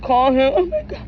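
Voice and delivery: hammed-up high squeal of panic; mock flustered squeal, shooting up very high; mimicked panic. Stunned woman wanting to call him, mimicked panic.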